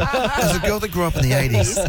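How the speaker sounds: high, bright ad-read voice; infomercial voice. Retold or imitated. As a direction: mimic a TV ad opener. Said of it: "She sounds like an infomercial".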